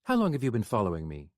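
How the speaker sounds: tense and sharp; brittle. Acted. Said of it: "voice was as brittle as dried seaweed".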